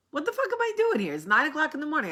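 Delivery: high, quick exasperated self-talk; talking to herself. Retold or imitated. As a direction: imitate yourself griping alone in the aisle like your mother. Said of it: "I sound like my mother".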